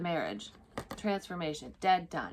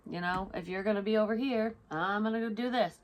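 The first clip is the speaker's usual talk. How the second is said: mock cheerful brush-off; breezy goodbye; 4 semitones higher, 4 dB louder than usual. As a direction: toss it off like walking away happy. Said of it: "Because you're like".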